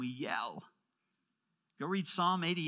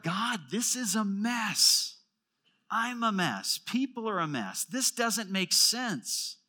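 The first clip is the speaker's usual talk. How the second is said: anguished lament; 5 semitones higher, 4 dB louder than usual. Pretend. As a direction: plead out loud like a psalmist in despair. Voicing the psalmist's lament.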